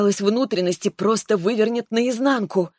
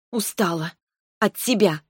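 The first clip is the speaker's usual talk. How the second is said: vindictive; 2 semitones higher than usual. A narrator's reading. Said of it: "мстительно сказала я".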